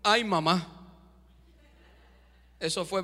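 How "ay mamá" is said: scared servant. Acted. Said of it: "su criado le dijo".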